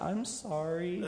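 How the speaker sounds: slow, laughing "I'm sorry"; laughing apology. Retold or imitated. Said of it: "David was just like".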